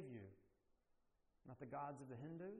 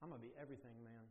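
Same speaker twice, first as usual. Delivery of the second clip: low, quick mumble of a small son imitating his boast; little boy voice; 6 semitones lower, 9 dB quieter, much faster than usual. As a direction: rattle it off like a proud little kid. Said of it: "Beckett goes".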